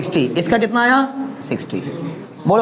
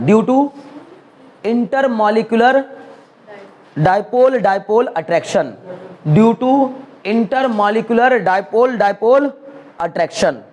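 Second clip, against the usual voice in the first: very slow, word by word for note-taking; slow dictation; much slower than usual. Shown as a demonstration. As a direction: dictate each word slowly so they can write it. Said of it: "वो भी अभी बस लिख देना". (धीरे-धीरे लिखवाते हुए)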